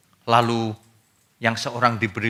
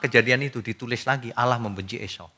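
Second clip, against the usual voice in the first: usual speaking voice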